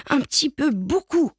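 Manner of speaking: put-on high little-kid voice; timid child. A narrator's reading. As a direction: admit it like a small child. Small child admitting more fear.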